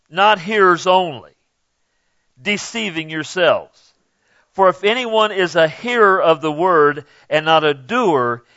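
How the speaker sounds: measured scripture reading, slowing at the end. Acted. Preacher reading James to the church, measured. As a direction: read the verse out to the congregation.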